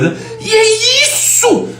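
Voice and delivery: sudden high, drawn-out outburst; hammed-up impression of an impassioned speaker; Clóvis de Barros. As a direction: burst out theatrically, sky-high and slow. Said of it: "Ele faz".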